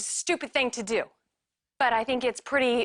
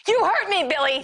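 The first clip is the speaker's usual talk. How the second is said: much higher, louder anguished yell; angry shout; 9 semitones higher, 7 dB louder than usual. Acted. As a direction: let it burst out at him. Wife confronts cheating husband.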